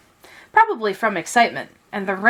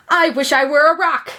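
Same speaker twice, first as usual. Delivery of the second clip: higher, louder, blurted in panic; panicked wish; 6 semitones higher, 3 dB louder than usual. A narrator's reading. Frightened donkey facing the hungry lion, panicked. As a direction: gasp it out as the lion stares. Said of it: "he said".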